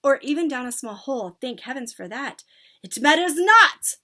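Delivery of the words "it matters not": slow, high, loud dismissal; commanding witch shout. A narrator's reading. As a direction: declare it imperiously. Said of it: "shouted the Grand High Witch".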